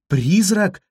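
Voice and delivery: high, loud scream of fright; terrified cry. A narrator's reading. Cleopatra to the cat, terrified cry. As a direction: cry out in horror. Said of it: "закричала она в ужасе".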